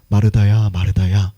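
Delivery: low, gentle calling of a name; calm, kindly. Acted. Jesus calls Martha twice to reassure her, calm and kindly. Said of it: "차분하게 상냥하게 이야기하신 것 같아서".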